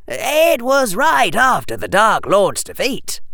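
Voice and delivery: put-on high boy's voice, serious. A narrator's reading. Harry answering Hermione about the trial, serious. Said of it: "his voice serious as he said it".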